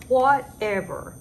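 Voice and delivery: exasperated. Real, not acted. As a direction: dismiss it with a loud sigh-like drag. Annoyed dismissal of the expense.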